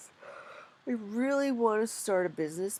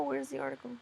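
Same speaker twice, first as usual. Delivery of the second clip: usual speaking voice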